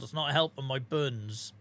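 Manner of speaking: put-on Norfolk accent. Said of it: "in broken Norfolkese".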